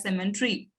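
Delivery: "symmetry" said as SEM-en-tree; "symmetry" pronounced with an added N; pronunciation of symmetry. Shown as a demonstration. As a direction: say "symmetry" with an n sound before the "tree". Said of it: "we pronounce it as".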